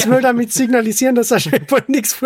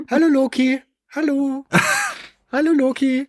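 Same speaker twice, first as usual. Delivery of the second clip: laughing; 4 semitones higher than usual. Real, not acted. Calling cat with laugh.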